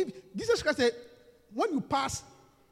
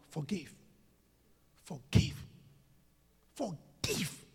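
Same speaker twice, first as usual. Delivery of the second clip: soft forgive; 10 semitones lower, 10 dB quieter, much slower than usual. Real, not acted. Repeating the word softly.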